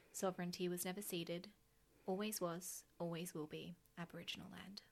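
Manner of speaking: formal, solemn newsreader read. Acted. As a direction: read it like the evening news. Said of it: "That is my serious newsreader voice".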